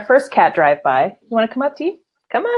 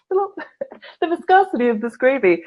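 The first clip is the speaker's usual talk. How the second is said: mock connoisseur; 6 semitones higher, slower than usual. Mock connoisseur describing gravy.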